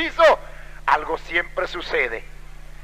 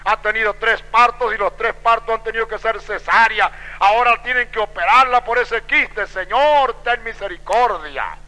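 raised, pleading prayer; agonized plea; 4 semitones higher than usual. Retold or imitated. Husband begging the Lord for his wife, agonized plea. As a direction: plead with the Lord, stretching the last words. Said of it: "él estaba agonizando por ello".

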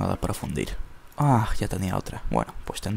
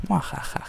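whispered villain laugh; 5 semitones higher than usual. Pretend. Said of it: "Me siento un Joker".

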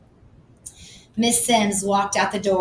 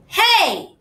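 high, loud startled hey; sharp hey; 12 semitones higher, 6 dB louder than usual. A narrator's reading. Susie catching the narrator with her sketchbook, high and sharp.

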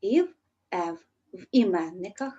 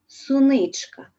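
суничка higher, louder and slow; affectionate diminutive; 4 semitones higher, 6 dB louder, slower than usual. Shown as a demonstration. Teacher to pupils, tenderly voicing the diminutive. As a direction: savour the little word fondly. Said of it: "із пестливо здрібнілим відтінком".

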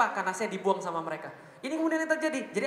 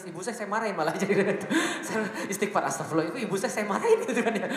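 laughing sheepishly; 3 dB louder than usual. Real, not acted. Laughs at own anger at mother.

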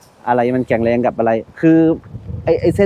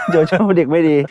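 put-on sulky three-year-old voice, a bit higher; mock child voice; 4 semitones higher than usual. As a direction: play the pouting little kid. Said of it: "คามบอกว่าอะไรรู้ไหม". (ทำเสียงเด็กสามขวบงอน)

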